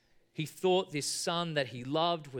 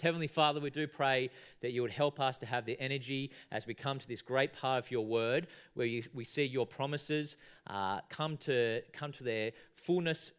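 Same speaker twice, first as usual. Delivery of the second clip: lower, even praying voice; public prayer; 4 semitones lower, 3 dB quieter than usual. Real, not acted. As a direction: lead the congregation in earnest prayer. Leads congregation in prayer.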